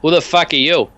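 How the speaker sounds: a lightly voiced thug, curt; stranger's challenge. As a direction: challenge the intruder-captain. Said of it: "and he goes".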